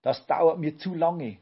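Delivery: lightly squeaky little professor, fed up; Brausewein. A narrator's reading. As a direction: pipe up in protest. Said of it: "piepste Brausewein".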